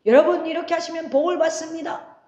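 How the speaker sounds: a hint of a showy preacher promising blessings; lightly hammed-up revival pitch; mock prosperity preacher. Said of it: "이러면은 다 은혜를 받아".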